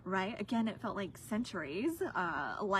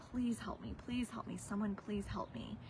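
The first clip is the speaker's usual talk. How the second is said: retold begging; 2 semitones higher, 5 dB quieter than usual. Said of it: "And I went into begging".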